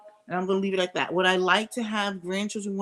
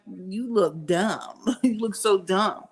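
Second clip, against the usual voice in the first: mocking taunt; slower than usual. Mocking a man's photo.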